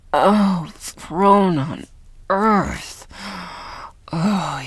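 loud cry of pleasure; ecstatic cry. Acted. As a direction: cry out in rapture. Moaning in pleasure.

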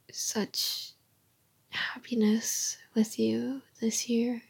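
tender unvoiced whisper to a partner. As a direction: breathe the words close to the mic.

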